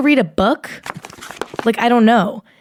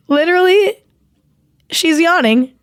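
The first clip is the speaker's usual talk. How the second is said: much higher, half laughing in disbelief; real delight that someone is yawning; amused disbelief; 8 semitones higher than usual. Real, not acted. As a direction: point it out, tickled and incredulous. Someone in the room yawns.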